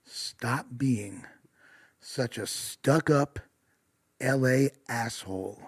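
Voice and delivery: put-on slow, dragged-out drunk guy; slurred drunk demand. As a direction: drag the words like a drunk boyfriend. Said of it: "this guy says".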